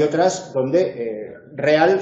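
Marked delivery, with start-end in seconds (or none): 1.5-2.0 REAL said as re-AL; two-syllable hiatus. Shown as a demonstration. Teacher gives the careful form first, hiatus re-AL. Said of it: "Ahí tenemos una palabra con dos sílabas".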